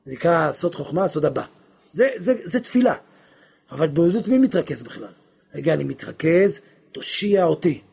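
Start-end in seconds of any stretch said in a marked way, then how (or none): 5.5-7.8 a stiff, studied plea, as if straining to focus; measured, effortful mock prayer; mock concentrated prayer. Shown as a demonstration. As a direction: say it like someone forcing concentration. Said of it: "התבודדות זה התפרצות".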